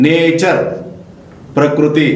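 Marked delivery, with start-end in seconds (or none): 0.1-0.6 "నేచర్" with no separate T sound; silent T. Shown as a demonstration. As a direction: say "నేచర్" with T merged into "ch". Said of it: "ఇక్కడ టీ పలకలేదు".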